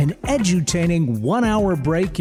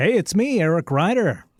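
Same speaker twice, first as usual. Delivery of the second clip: smile heard in the voice. A radio co-host introduces himself on the show, with a smile in his voice. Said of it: "you can hear the smile in your voice".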